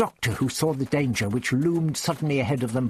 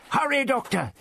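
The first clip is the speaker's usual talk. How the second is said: higher, urgent warning cry; yell over shoulder; 14 semitones higher than usual. Acted. Ian yelling a warning back to the Doctor, urgent cry. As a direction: shout back a warning as you run. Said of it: "turned to yell over his shoulder".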